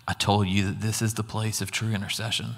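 gentle Jesus. Retold or imitated. Jesus embracing the speaker, speaking gently. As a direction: say it tenderly, like a comforting embrace. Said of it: "he said to me very gently".

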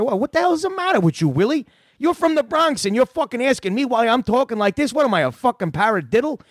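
high, fast mock tirade; mock rant. Prankster rants at a caller from the Bronx, high. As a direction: go off on him, hammed up. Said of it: "I went off on him".

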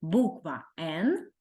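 slow teacher demonstration; slow, drawn out. Shown as a demonstration. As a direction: say "Буква Н" very slowly. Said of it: "Ця буква називається буква Н".

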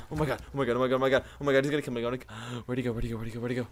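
rapid anxious repeating; nervous panic. Real, not acted. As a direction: fret like you're being hunted. Scared of enemy.

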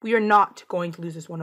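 "not" set apart with firm weight; stress on NOT. Real, not acted. Player corrects own talk of losing, stress on "not". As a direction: lean on the word "not". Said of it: "Keyword, no".

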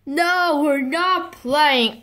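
high, drawn-out "we're not playing"; exasperated refusal. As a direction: call off the game, stretching the words. Mommy calls off the game.

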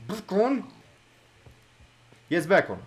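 high, loud call; excited calling out. Real, not acted. Gamer calling the found pig over, excited calling out. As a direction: shout for your pet.

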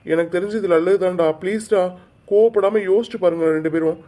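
forceful, earnest persuasion; insistent pleading. Acted. Aunt urging both boys not to spoil her plan, insistent pleading.

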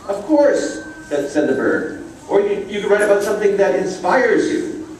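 a bright little bird explaining to a puppy; little yellow bird. Acted. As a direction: chirp it out like a cheerful teacher bird. Bird encourages Rocket.

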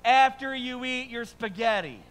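father answering son with a big mock-generous promise; grand fatherly answer. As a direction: promise it all grandly, then the catch. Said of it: "what answer I gave him".

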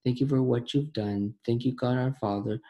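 earnest spoken prayer to the Father. Acted. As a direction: lead the group in a heartfelt prayer. Leads closing prayer.

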